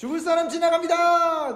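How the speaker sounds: high, loud shouted call.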